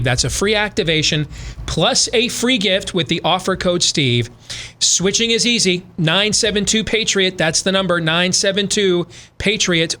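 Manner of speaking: steady, flowing sponsor pitch; ad read. Acted. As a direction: sell it like a radio host's live sponsor spot. Host reads a sponsor ad.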